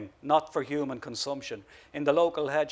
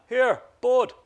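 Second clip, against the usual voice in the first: loud, high call after someone running off; shouted; 10 semitones higher, 8 dB louder than usual. A narrator's reading. Rex calls after the running man with a loud shout. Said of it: "He shouted after the running man".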